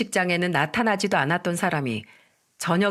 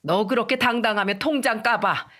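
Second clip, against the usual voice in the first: mild angry shout; 3 semitones higher than usual. Acted. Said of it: "더 불같이 화를 내며 소리쳤습니다".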